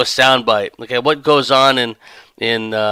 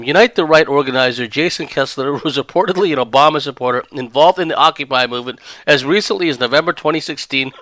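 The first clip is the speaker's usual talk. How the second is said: rushed reread; faster than usual. Real, not acted. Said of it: "I'll try it one more time".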